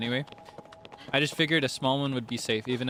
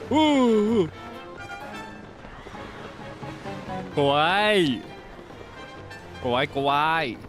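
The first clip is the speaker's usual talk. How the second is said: excited anime fan; 4 semitones higher, much slower than usual. Real, not acted. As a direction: squeal kawaii like a fangirl. Gushing over cute thing.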